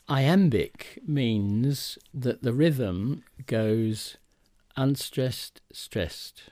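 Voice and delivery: unstressed then stressed, spoken slowly; drawn out to show the beat; slow stress demo. Shown as a demonstration. Teacher explaining iambic rhythm, slow and deliberate. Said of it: "let me explain that".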